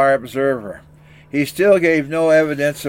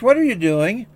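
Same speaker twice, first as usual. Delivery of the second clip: a higher, startled what are you doing; wife baffled at the mess; exasperated wife; 7 semitones higher than usual. Acted. Wife sees baby mess.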